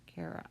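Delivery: "Carrot" with an ah sound in the last syllable; over-literal second vowel. Shown as a demonstration. Teacher showing the unheard ah sound, over-literal "Carrot". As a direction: sound out "Carrot" as care-aht. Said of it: "You don't hear that ah sound".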